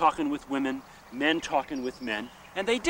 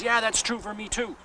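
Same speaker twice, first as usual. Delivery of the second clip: higher, lightly played country man; a hint of a rueful old farmer; mildly imitated Northern Irish man; lightly voiced Irish farmer; 7 semitones higher than usual. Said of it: "he says".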